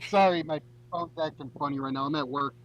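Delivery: muffled bad phone line; garbled, underwater phone audio. Real, not acted. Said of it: "you sound like you're underwater".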